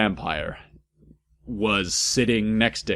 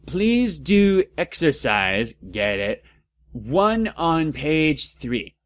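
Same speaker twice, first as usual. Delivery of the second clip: lightly voiced professor; 4 semitones higher, slower than usual. Voicing the professor.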